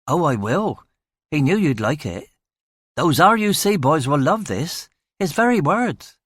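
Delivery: a touch of cheeky English constable; chirpy young constable. Acted. Constable passing on the superintendent's message, chirpy. Atkins voiced.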